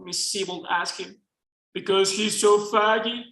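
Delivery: put-on reading in a self-admittedly shaky Southern accent; attempted Southern accent. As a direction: give it your best try at a Southern accent, a Mexican speaker's attempt. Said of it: "this is me trying a Southern accent".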